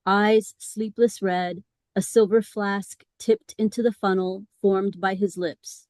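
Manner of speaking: measured poetry-reading delivery; poem reading. Acted. Host reading a hearse-driver poem to the group, measured recital. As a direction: read the poem out phrase by phrase.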